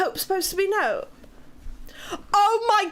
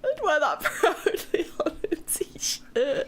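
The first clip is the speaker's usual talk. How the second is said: whispered laugh. Real, not acted.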